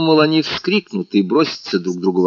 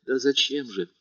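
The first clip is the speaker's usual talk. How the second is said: much softer, hushed question; whisper; 4 semitones higher, 7 dB quieter than usual. A narrator's reading. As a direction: barely breathe it. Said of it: "прошептала Наташа".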